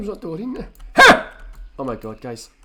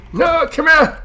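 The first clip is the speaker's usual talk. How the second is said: put-on higher, louder clingy old granny; 5 semitones higher, 7 dB louder than usual. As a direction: chase them down like a kissy granny. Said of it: "let Granny give me a kiss".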